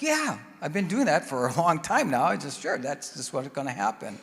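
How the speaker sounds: retelling his own eager certainty; mildly excited retelling. Retold or imitated. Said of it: "And I got all excited".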